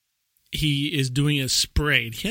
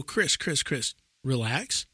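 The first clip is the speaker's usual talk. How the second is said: slowing, softening placation; mock soothing, easing off; imitated calming down; 5 dB quieter, slower than usual. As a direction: talk an excited colleague down. Acts out colleagues calming Chris.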